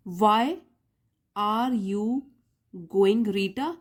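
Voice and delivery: slow, word-group by word-group question; example reading. Shown as a demonstration. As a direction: read 'Why, are you, going, Rita' with deliberate gaps. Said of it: "दो sentence पढ़ के देखते हैं". (उदाहरण वाक्य धीरे, रुक-रुककर पढ़ते हुए)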